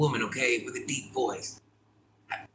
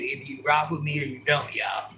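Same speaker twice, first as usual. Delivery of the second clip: mock shout as Cheryl. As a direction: belt it like she doesn't care who hears. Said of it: "That's what she's saying".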